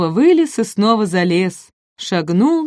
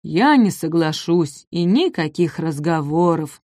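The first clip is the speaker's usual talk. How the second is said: weary giant; 2 semitones lower than usual. Acted. Апатозавр устало отказывает малышам. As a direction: drag it out with indifference. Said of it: "вздохнул Апатозавр".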